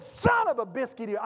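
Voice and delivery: retold outburst, punched hard on "Son"; passionate mock cussing. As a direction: blurt it like a cuss word. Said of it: "I said it with passion".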